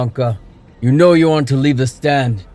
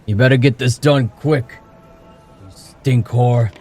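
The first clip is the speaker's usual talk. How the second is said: put-on drunk berating; 4 semitones higher, 4 dB louder than usual. A narrator's reading. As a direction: sneer the insult drunkenly. Drunk father berating daughter.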